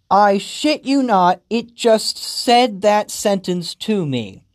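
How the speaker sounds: stunned by the nonsense; incredulous. Real, not acted. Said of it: "incredulous at game".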